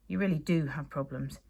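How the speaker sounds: awed. Acted. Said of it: "he said in an awed voice".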